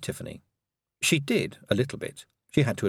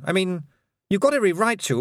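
voiced higher, fretful young lord; nervous boy; 10 semitones higher than usual. A narrator's reading.

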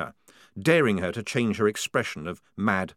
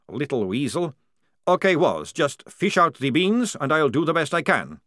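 dry vampire officer; 6 semitones higher, 4 dB louder than usual. Acted. Maledict voiced.

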